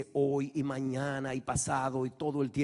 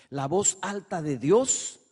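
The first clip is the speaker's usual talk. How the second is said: loud voice of God; 2 semitones higher, 5 dB louder than usual. Shown as a demonstration. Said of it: "¿cuál es más importante?".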